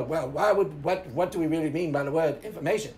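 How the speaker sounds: deep, mocking James impression; James imitation. Mimicking James to mock his nitpicking, deep and ponderous. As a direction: drop low and mimic a pedantic questioner. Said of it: "that's my James imitation".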